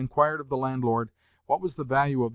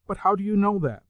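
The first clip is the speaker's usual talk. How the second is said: put-on high, louder retort from an imperious old lady; sharp retort; 8 semitones higher, 6 dB louder than usual. A narrator's reading. Old lady retorting to the landlord, sharp and haughty. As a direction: snap the question back at him. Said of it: "the old lady retorted".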